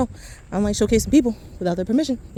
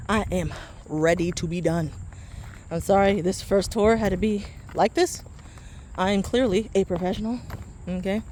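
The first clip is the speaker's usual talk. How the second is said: winded and tired; out of breath; 3 dB quieter than usual. Real, not acted. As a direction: talk between heavy breaths. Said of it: "that I am out of breath".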